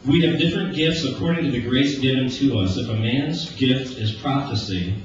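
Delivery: solemn scripture read to the congregation. Acted. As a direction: read the passage with weight. Reads Romans twelve aloud.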